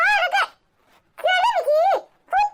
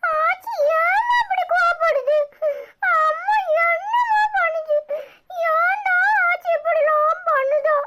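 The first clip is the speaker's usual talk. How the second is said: tearful, voice catching on the words; a child sobbing out the question; a little boy crying to his brother about grandma. Acted.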